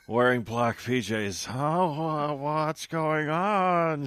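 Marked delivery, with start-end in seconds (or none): 1.5-4.0 cautious. Acted. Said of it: "she asked cautiously".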